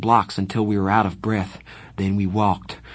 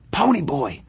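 calling out; 6 semitones higher than usual. Acted. Johnny waking narrator.

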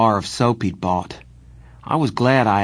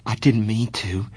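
blurted out. A narrator's reading. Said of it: "he finally blurted out".

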